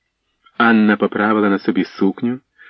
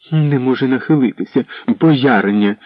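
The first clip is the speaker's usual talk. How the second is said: higher, mocking echo of не може нахилитися with a falling end; scornful mimicry; 3 semitones higher than usual. Anna mocking the servant's excuse, scornful echo. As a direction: sneer the words back like a spoilt princess. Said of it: "не вгамовувалася Анна".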